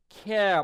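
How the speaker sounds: "খেয়া" said as kheh-a, stopping before any r. Shown as a demonstration. Teacher showing learners "care" as "খেয়া", final r left silent. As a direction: end "খেয়া" on an open vowel, r left silent. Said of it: "বলে চুপ করে থাকতে হবে".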